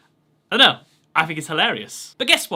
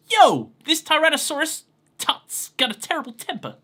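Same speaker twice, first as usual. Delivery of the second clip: put-on Brooklyn accent; 9 semitones higher, 3 dB louder than usual. Reading Joey-style English text.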